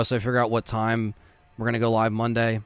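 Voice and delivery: talking with the hiccups; words broken by hiccups. Real, not acted. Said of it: "Now I have the hiccups".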